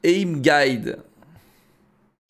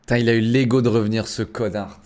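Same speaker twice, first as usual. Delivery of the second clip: annoyed rant; 5 semitones lower than usual. Real, not acted. Angry at the enemy returning.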